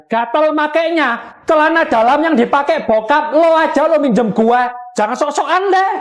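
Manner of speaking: bickering insult. Acted. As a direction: trade jabs like a sulky classmate. Classmates quarrel over borrowing.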